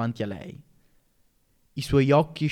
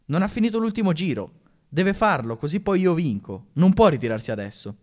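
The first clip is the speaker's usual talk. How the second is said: a hint of a cheeky boy blurting out, higher; rude outburst; 3 semitones higher than usual. Barry to the teacher, rudely protesting. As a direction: blurt it rudely, like a sulky pupil. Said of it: "sbottò maleducatamente".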